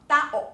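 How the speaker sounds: "tao" said ta-o, separated; two syllables. Shown as a demonstration. Teacher stating what Filipinos know, "tao" in two syllables. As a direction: give a and o separate beats in "tao". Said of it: "是两个音节".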